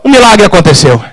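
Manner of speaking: ordinary delivery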